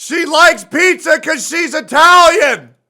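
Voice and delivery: high, slow, loud mocking shout; loud sarcastic mock exclamation; mock Italian shout. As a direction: ham it up like a cartoon Italian. Mocking Zani's pizza line.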